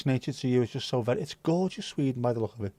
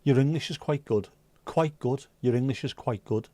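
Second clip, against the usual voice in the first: Dutch couple. Retold or imitated. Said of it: "the Dutch couple".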